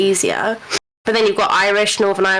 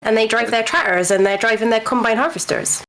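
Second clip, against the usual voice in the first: rural southern English farmer accent, quickened; faster than usual. Shown as a demonstration. Brit showing how southerners sound, farmer accent. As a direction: put on a West Country farmer's accent. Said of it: "they all sound like farmers".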